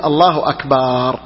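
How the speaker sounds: slow takbir with أكبر said "akbaaar"; low, slow الله, then ak-baaar; long final aa. Shown as a demonstration. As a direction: drag out the last vowel of أكبر. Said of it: "هذا لا يجوز".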